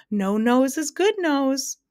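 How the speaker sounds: loud, high, drawn-out roar; slow hysterical bellow; thundering. A narrator's reading. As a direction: thunder the punchline, stretching every word. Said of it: "thundered the Din once again".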